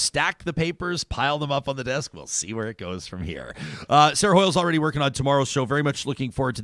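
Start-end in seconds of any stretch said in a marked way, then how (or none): 2.1-3.6 low, soft news anchor sign-off. Shown as a demonstration. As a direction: close it like a six o'clock anchor stacking papers. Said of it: "six o'clock news anchor impression".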